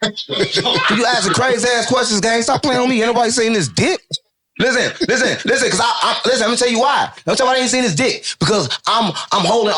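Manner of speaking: high, laughing protest. Real, not acted. Laughing at the interviewer's crazy question, high and giggly.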